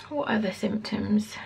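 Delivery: slow unvoiced whisper to herself; whispered aside. Real, not acted. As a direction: whisper the question as you think. Thinking aloud aside.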